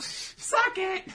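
high, loud gleeful screech; taunting imp. Acted. Devil imp gloating at his rivals, screeched taunt. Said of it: "the little panel of him like".

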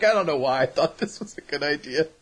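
low, muted regret; lightly voiced defeated muttering; mock resignation. Bride regretting her wedding, mock resignation.

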